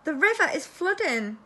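high, loud squeak of alarm; squeaky giraffe. A narrator's reading. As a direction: cry out as a squeaky-voiced giraffe. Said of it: "in a surprisingly squeaky voice".

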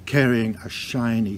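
ordinary delivery

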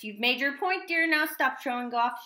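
a mother scolding her showing-off husband. Acted. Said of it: "she scolded".

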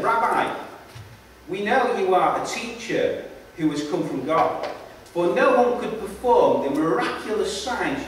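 measured public Bible reading; emphatic openings, falling phrase endings; scripture reading. A narrator's reading. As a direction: read it out deliberately, phrase by phrase. Reads the Bible passage aloud.

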